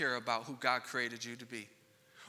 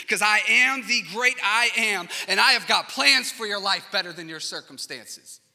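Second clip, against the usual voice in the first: God calling out; 3 semitones higher, 7 dB louder than usual. Acted. God yelling to the lost listener, loud and urgent. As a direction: call out like God reaching for them.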